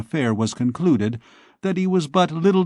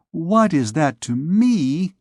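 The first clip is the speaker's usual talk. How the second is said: tearful exclamation; 5 semitones higher, slower than usual. Acted. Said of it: "exclaimed Fleur-de-Lis".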